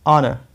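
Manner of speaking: आना with open "aa", not "o"; correct pronunciation. Shown as a demonstration. Teacher corrects "ono" for students, आना with an open "aa". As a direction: open the first vowel of आना. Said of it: "ओनो नहीं बोलना है".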